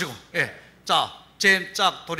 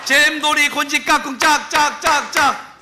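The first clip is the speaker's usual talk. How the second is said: kindergarten teacher voice; 8 semitones higher, slower than usual. Acted. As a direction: call out the clapping game like a kids' teacher. Leads clapping game.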